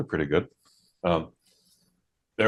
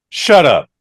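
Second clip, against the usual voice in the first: mock reply; 5 semitones higher, 8 dB louder than usual. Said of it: "this was his genius reply".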